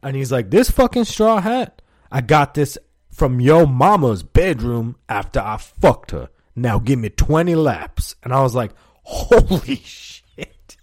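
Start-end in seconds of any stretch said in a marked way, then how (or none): 0.5-8.1 mock indignant coach. Coach punishing a player for laughing, loud mock indignation. Acts coach's angry comeback. 9.0-10.8 high, drawn-out, breaking into laughter; amazed reaction. Retold or imitated. Player hearing the coach's insult, laughing amazement. Acts own shock at coach's remark.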